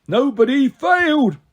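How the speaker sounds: slow, high monster gloating; gleeful Cyclops. A narrator's reading. Cyclops gloating over the trapped heroes, slow. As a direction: savor every word of the win. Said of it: "he yelled gleefully".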